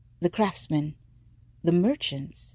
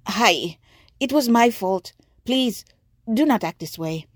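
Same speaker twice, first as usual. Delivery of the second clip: put-on pleading boy's voice; 4 semitones higher, 4 dB louder than usual. A narrator's reading. Batiko pleading.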